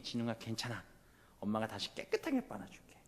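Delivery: lightly voiced mother soothing her child; reassuring mother. Mother promises to wash the clothes, gentle reassurance. Mother consoles son in story.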